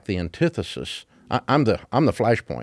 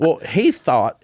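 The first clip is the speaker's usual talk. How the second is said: laughing; 6 semitones higher, 4 dB louder, much slower than usual. Real, not acted. Still laughing after his story.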